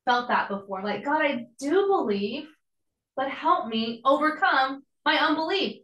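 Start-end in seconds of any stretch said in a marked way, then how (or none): 1.0-5.8 heartfelt plea. Pretend. Pastor voicing the listeners' own prayer, higher and pleading. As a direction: cry out to God for help with your doubt. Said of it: "How many of y'all have felt that before?".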